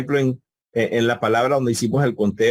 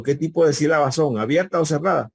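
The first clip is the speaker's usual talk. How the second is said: quoted teacher question; 5 semitones higher than usual. Retold or imitated. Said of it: "y yo les pregunto".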